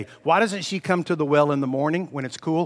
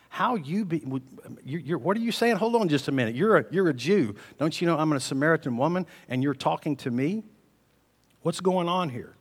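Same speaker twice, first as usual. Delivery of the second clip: shocked; 3 semitones higher than usual. Acted. Shocked Samaritan woman.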